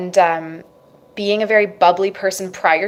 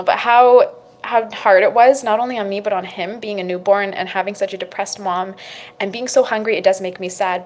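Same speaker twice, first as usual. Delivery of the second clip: emotional, near tears. Real, not acted. Near tears recalling her hungry newborn, emotional. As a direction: let the feeling push through, then drop. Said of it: "I'm getting emotional".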